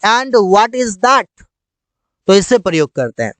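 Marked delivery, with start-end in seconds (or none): 0.1-1.3 stretched out very slowly; slow clear English. Shown as a demonstration. Teacher giving the English phrase slowly. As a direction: drill it word by word. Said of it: "या फिर".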